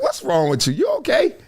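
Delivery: put-on bewildered check-in; imitating a baffled onlooker. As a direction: question a weirdo, jumping up in pitch on OKAY. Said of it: "like that guy was".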